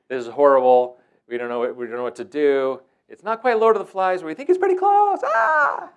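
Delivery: high, loud staff panic over the radio; mock panicked field staff; panicked radio call. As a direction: sound like you're losing it.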